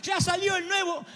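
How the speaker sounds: hammed-up bratty wail, stretched at the end; mock miserable son. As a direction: wail at dad like a spoiled kid. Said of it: "si tu hijo se empieza a comportar miserablemente así".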